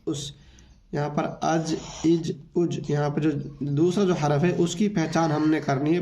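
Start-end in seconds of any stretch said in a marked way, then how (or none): 0.1-0.3 अस इस उस said slowly and softer, each vowel clear; slow syllable demo. Shown as a demonstration. Teacher showing the joined reading, slow and soft. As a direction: slowly model अस इस उस. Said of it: "ऐसे भी इसको पढ़ सकते हैं".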